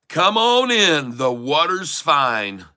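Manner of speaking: high, drawn-out country holler. Shown as a demonstration. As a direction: call it out slowly in a country drawl, swooping down. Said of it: "Don't let me get my country voice".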